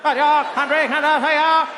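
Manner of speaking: slow, high Boston orator cadence; high and slow, an orator's drawn-out pauses; JFK impression. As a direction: drag out the grand pause like Kennedy. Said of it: "He had that thing".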